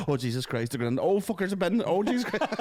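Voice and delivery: high-pitched mock-alarmed girl; imitated video narrator. Girl narrating a bin video over the footage, high mock alarm. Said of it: "girl giving the narration".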